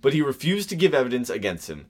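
slight stuffy Victorian officer voice; lightly voiced official. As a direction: read like a stiff memoir. Reading quote in deeper voice.

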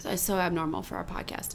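hushed whispered aside. Real, not acted. Two hosts whispering an aside on their podcast. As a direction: whisper it so nobody hears. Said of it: "Please don't".

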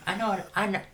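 playful lovey-dovey answer; doting husband reply. Retold or imitated. Acted reply to wife.

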